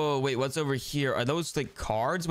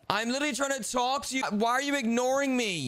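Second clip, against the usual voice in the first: higher-pitched, whiny protest; exasperated complaint; 6 semitones higher than usual. Acted. To a brother who is ignoring you, high exasperated complaint. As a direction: plead indignantly for attention.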